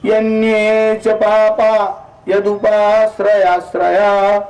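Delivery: slow, measured shloka recital, each name drawn out; scripture recitation. Shown as a demonstration. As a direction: recite the Sanskrit names slowly like scripture.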